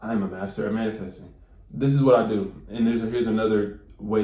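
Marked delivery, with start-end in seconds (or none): 0.0-1.3 mildly robotic, a little subdued; mock robotic affirmation. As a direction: imitate someone reciting a stiff affirmation. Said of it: "I don't sit there and be like".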